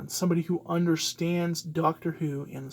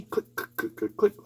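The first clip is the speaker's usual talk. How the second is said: mouth clicker noise; 3 semitones higher, 4 dB louder than usual. Retold or imitated. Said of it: "he's gonna have a clicker".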